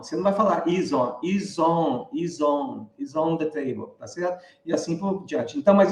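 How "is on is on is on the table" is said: "is on" repeated as one joined word; words linked. Shown as a demonstration. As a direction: slide the z of "is" straight into "on". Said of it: "fazer a ligação". ("is on" ligado, como uma palavra só)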